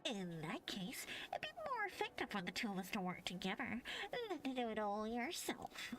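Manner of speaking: sly whispering villain; whispered villain. Acted. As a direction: hiss it like a schemer. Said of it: "I'm voicing them".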